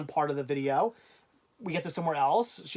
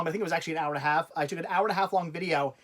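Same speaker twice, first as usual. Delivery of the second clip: talking through hiccups; hiccuping; faster than usual. Real, not acted. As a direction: hiccups breaking the words. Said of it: "Oh my gosh, I'm, like, hiccuping".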